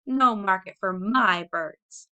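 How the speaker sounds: slow, loud repeat, leaning on no; bitter, trembling anger. Acted. Mother home from town, repeating her grievance slow and loud. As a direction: drag out the bitter no. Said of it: "She was trembling with anger and excitement".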